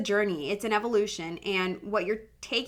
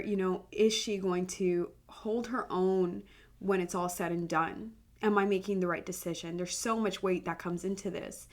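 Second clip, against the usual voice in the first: real emotion, holding back tears; 4 dB quieter than usual. Real, not acted. Homeschool mom opening up to listeners, softly tearful. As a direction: speak through welling tears, quietly. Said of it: "I'm getting emotional".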